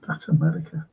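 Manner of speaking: hushed whisper; whispered punchline. Retold or imitated. Retelling the American's joke, whispered.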